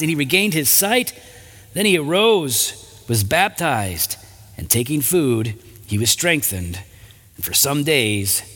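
measured, even Bible reading; scripture reading. A narrator's reading. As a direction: read the passage aloud with pauses between phrases. Reads scripture aloud.

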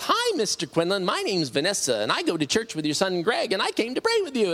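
lightly voiced chirpy introduction, a bit high; cheery visitor imitation. Church friend introduces herself to the sick father, lightly mimicked chirpiness. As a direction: imitate an eager church friend saying hello.

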